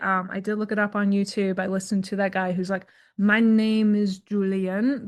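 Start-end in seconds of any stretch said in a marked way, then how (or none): 3.2-5.1 slow, drawn-out mock pronunciation guide voice; hammed-up slow teacher of hard words; terrible imitation. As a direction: play a slow, funny YouTube pronouncer, badly on purpose. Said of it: "This is a terrible imitation".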